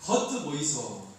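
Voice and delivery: slow, clipped Gyeongsang accent for a welcome; a gruff Gyeongsang greeting, lightly played; mock Gyeongsang welcome; Gyeongsang dialect. Shown as a demonstration. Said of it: "경상도는".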